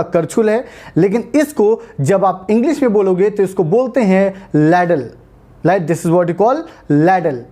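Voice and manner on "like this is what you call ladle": slow teaching line. Shown as a demonstration. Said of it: "teaching a new word".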